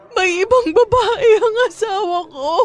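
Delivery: high, tearful, words cried through sobs. In a skit, the person told to stop crying answers, sobbing. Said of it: "tahan na".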